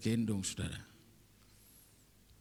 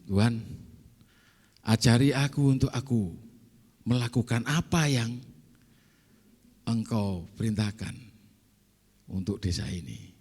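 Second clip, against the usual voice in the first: louder, earnest plea to God; fervent spoken prayer; 3 dB louder than usual. Retold or imitated. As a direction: call out the prayer with conviction. Prayer retold, said out loud. (doa lantang penuh semangat)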